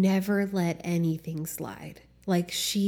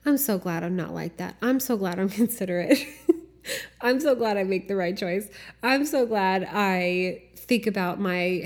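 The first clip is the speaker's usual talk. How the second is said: smug self-praise. Retold or imitated. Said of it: "a superior satisfaction to be like".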